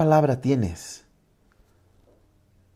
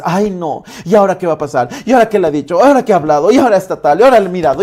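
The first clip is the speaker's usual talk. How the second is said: imitated fretful complaining, building louder; mock complaining; 3 semitones higher, 6 dB louder, much faster than usual. Pastor imitating someone complaining in a crisis, mock griping. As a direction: pile up the mock worries in one repeating tune. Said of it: "Si tu voz va a ser la queja".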